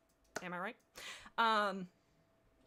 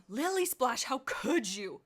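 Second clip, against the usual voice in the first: mild angry spit; 3 semitones higher, 5 dB louder, slower than usual. Acted. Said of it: "spat angrily".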